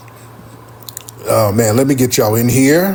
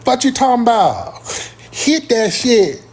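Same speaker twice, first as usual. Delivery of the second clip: much higher, slow drawn-out hood voice; hood girlfriend voice; 9 semitones higher, slower than usual. Retold or imitated. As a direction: tease him like the country girlfriend. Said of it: "She talked like that".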